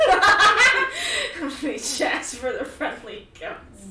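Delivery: slow, high, loud laughing ghost voice; mock ghost voice. Joking to her friend about becoming Casper.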